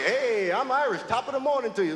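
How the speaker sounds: mock Irish greeting. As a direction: playfully fake an Irish greeting in the tavern. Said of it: "and say".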